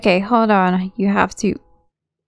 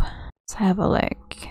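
whispering; 6 dB quieter, slower than usual. Real, not acted. Muttered while reading.

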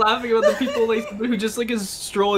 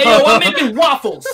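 Donkey voice; 4 semitones higher, 7 dB louder than usual. Pretend. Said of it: "I'm Donkey".

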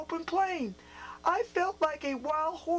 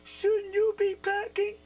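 grandfather booms down from horseback; a louder call from above; booming call; 4 semitones higher, 4 dB louder than usual. Acted. Grandfather on horseback calls down to John, booming. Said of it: "a voice boomed above him".

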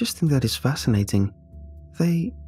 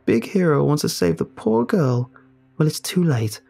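defiant bravado; 5 semitones higher than usual. Acted. Ellie defending her choice to the narrator, defiant. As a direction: insist you're fine too hard.

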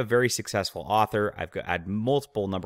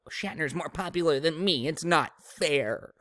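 higher mock whine, dragging slowly at the end; whiny Wheaton impression; 7 semitones higher than usual. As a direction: mimic a sulking man-child complaining. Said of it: "a gamma male sort of thing where it's like".

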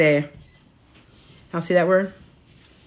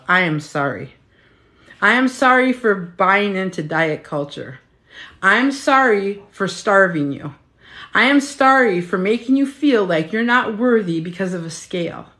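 heartfelt. Real, not acted. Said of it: "this is where I get emotional".

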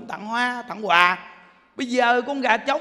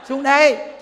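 louder coaxing call; coaxing a bird down from a treetop, louder; 5 semitones higher, 7 dB louder, slower than usual. Retold or imitated. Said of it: "mình kêu".

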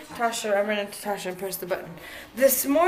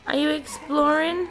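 slower pet talk; 4 semitones higher, 3 dB louder than usual. Real, not acted. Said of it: "repeats question to pet".

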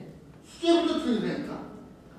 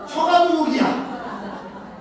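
drawn out slowly through laughter, louder; laughing; 4 semitones higher, 5 dB louder, much slower than usual. Real, not acted. Teacher laughing at in-laws living next door, slow and amused. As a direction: chuckle the words out, amused.

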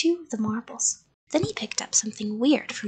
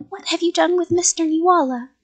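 raised, urgent questioning; loud demand; 6 semitones higher, 6 dB louder, faster than usual. A narrator's reading. Child confronting the creature about the neighbor, loud demand. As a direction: demand an answer.

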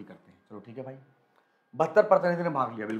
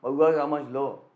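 lightly mimicked toothless teacher, words drawn out; slow, mock toothless mumble; toothless old teacher; 4 dB louder, much slower than usual. Teacher joking to students about his future self, mock toothless voice. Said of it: "मेरे दांत बिल्कुल टूटे रहेंगे".

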